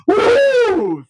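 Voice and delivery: genie popping out with a high "woo"; long, high whooshing whoop. Acted. Joke teller voices genie bursting from the lamp, high whoop.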